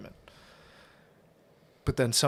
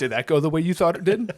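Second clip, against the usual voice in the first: laughing taunt; 3 semitones higher, 4 dB louder, faster than usual. Retold or imitated. Mocking movie line, laughing.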